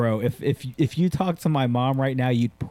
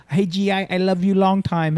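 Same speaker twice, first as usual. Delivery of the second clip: mock Asian accent; 5 semitones higher than usual. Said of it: "Dad was an American Marine there".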